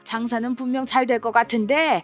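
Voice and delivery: a hint of a wounded stepmother; resentful stepmother. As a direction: sulk and accuse her of hating you.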